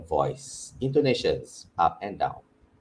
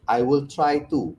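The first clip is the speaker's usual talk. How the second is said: mock hesitant student; 6 semitones higher than usual. Lecturer playing a student who promises to try, hesitant. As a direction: act the unsure student. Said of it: "No, no, no".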